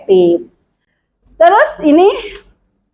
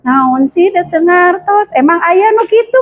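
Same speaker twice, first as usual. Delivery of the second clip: mock bewildered; 4 semitones higher than usual. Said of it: "si dia pasti bengong".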